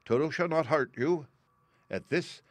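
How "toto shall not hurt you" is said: raised, higher Woodman voice; calling out. A narrator's reading. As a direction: call the frightened mice back. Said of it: "while he called to the mice".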